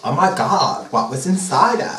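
low-pitched, understated heiress voice; Paris. Acted. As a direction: ask low, as a mock-awed starlet. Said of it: "Paris asked".

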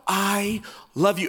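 slow, stretched-out declaration; mock-earnest, lingering delivery; drawn-out mock emphatic. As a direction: linger on each word as if smitten. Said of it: "it's not so".

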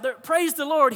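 high, loud mock holler; retold shout. Elderly lady shouting at the atheist next door, mock holler. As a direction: imitate her shouting praise, up in pitch. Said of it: "she would shout".

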